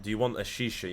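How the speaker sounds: lightly imitated Arabic accent. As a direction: mimic a Dubai local with a hint of an Arabic accent. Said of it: "they say in the Arabic accent".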